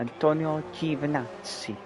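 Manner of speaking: slow, high, hammed-up Italian accent. Shown as a demonstration. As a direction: roll it out like an Italian. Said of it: "I hope my Italian accent wasn't too painful".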